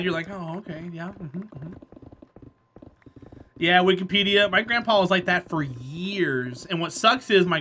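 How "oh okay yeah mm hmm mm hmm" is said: soft, subdued sympathetic murmur; quiet, sad agreement. Shown as a demonstration. Humoring someone who got quiet and sad, softly subdued. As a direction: drop the volume to match their sadness. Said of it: "Then they get quiet and sad".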